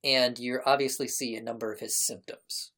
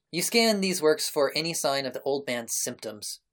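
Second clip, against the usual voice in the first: game master narration. Acted. Game master describes the scrolls to the player, deliberate narration. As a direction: unfold the grisly discovery deliberately, pausing between images.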